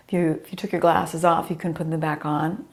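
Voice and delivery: a scratchy, rough-edged voice. Real, not acted. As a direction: talk through a scratchy throat. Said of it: "I'm sorry for my scratchy little voice".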